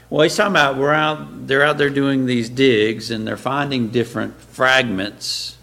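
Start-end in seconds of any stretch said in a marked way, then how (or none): 3.9-5.6 "fragments" set apart with emphasis; stress on fragments. Real, not acted. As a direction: lean on the word "fragments". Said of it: "I'll emphasize the word fragments".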